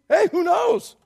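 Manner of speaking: high, mock-hopeful shrug of a question; sarcastic. Shown as a demonstration. Preacher voicing verse fourteen's sarcasm, high and sarcastic. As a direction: toss it out with sarcasm. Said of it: "do you hear the sarcasm".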